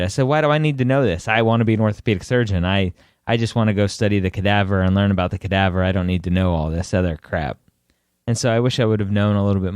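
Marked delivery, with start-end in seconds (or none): 0.2-7.6 fast, impatient retold complaint; frustrated. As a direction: rattle it off like a mildly frustrated student. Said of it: "and was frustrated".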